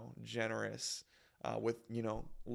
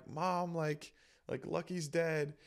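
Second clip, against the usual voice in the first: higher, retold upset kid; trying not to cry; 5 semitones higher, slower than usual. Kid telling mom the pet lizard died, holding back tears. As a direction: break bad news, holding it in. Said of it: "I'm trying not to cry".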